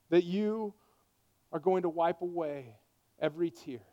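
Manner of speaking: earnest pastoral prayer, swelling then fading to a hush; closing prayer. Acted. Pastor praying over his church, earnest, fading to a hush.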